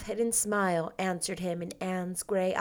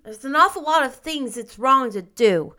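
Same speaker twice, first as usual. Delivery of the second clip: put-on high, mildly resigned child voice; sighing little boy; 5 semitones higher, 7 dB louder than usual. A narrator's reading. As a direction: complain like a burdened small boy. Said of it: "said Davy with a sigh".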